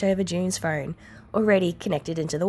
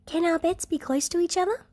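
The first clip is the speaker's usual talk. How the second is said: breathy unvoiced child's whisper; 11 semitones higher than usual. A narrator's reading. Eri whispers her wish to June. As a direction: hush it like a shy little girl. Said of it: "Eri-chan whispers".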